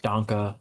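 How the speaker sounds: Danke, tahn-keh with a German lilt. Shown as a demonstration. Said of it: "or Danke schön".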